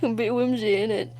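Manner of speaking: a light, playful touch of a British accent. Shown as a demonstration. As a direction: toss off 'A bit whimsy, innit?' in a hint of mock British. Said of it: "Why am I British?".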